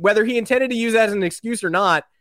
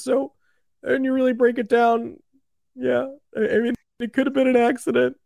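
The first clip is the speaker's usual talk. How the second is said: mocking Gerrit Cole; 3 semitones higher than usual. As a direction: lightly play the player fumbling through an awkward interview answer. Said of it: "try to respond to the sticky tack ... question".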